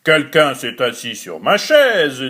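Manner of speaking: a hint of the big bear; lightly deepened big bear voice; big bear's gruff voice. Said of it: "de sa grosse voix".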